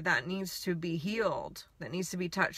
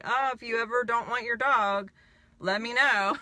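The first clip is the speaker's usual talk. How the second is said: retold eager plea, higher and louder; eager appeal; 4 semitones higher, 4 dB louder than usual. Asking the dog's owner to think of her, eager. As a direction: call it out keenly, retelling the moment.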